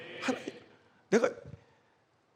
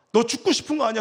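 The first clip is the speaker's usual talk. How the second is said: louder, insisting 죽고 싶은 거 아니야; firm self-rebuke; 5 dB louder, faster than usual. Retold or imitated. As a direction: push 너 죽고 싶은 거 아니야 out loud, stressing 싶은. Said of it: "내가 나한테".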